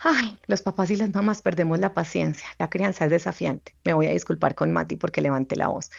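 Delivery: gentle, understated kind inner voice; self-compassionate voice. Retold or imitated. Psychologist voicing her kind inner voice to herself. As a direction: soothe yourself like a friend would, lightly. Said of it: "Mi voz autocompasiva dice".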